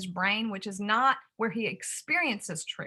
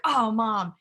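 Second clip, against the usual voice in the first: put-on excited kid; 4 semitones higher, 8 dB louder than usual. Son recalls the drone excitedly.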